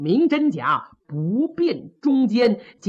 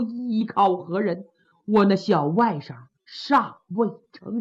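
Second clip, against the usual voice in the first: mournful lament. Acted. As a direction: mourn the brother-in-law at the coffin, with a touch of a sob. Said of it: "看着棺椁是放声痛哭".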